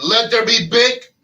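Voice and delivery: slow, loud, grand proclamation; voice of God. Retold or imitated. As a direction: boom it out like God. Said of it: "God just said".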